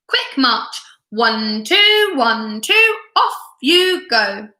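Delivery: a father's playful marching orders; mock drill sergeant. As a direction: count them off like a sergeant. Father drilling his kids.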